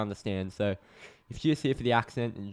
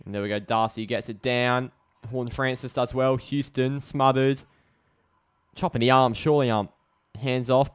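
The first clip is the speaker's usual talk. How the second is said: steady footy commentary; live match call, names stretched out; live play-by-play; 5 dB louder than usual. Real, not acted.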